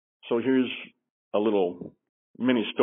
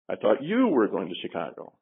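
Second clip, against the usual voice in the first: you punched with a falling tune; stress on you. Shown as a demonstration. Trainer showing the class stress on you. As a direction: lean hard on you. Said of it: "each sentence had the word highlighted".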